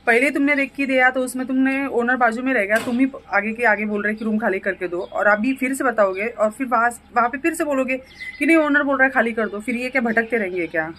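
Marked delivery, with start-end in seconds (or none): 0.1-9.6 indignant rant. Real, not acted. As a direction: vent the irritation, pressing each point. Venting about the aunt's meddling. (चिढ़कर ऊँची आवाज़ में शिकायत)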